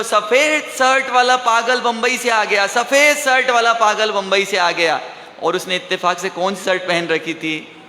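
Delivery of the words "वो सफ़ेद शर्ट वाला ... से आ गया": mock alarm call, starting high; mildly shouted announcement, pitch easing on the repeat; retold shouting. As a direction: imitate someone hollering out a sighting. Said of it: "वो चिल्लाने लग गया".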